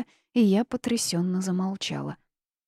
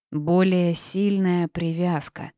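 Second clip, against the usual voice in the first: said louder; slower than usual. Acted. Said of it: "громче произнесла бабушка".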